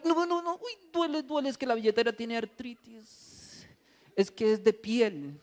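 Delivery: high mock cry of pain, no no no; hammed-up wail. Stingy husband yelps as wife reaches for wallet, high mock wail.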